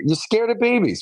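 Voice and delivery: "you're scared of babies" with "babies" lifted high, then falling. Retold or imitated. Mother repeats to daughter, higher.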